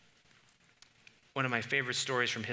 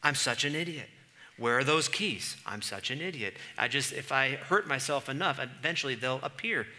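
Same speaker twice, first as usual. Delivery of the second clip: hammed-up self-blame; mock self-condemnation; 3 semitones higher, 4 dB louder than usual. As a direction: berate yourself over lost keys. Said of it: "self-condemnation".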